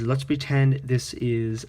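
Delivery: ordinary talk, nothing marked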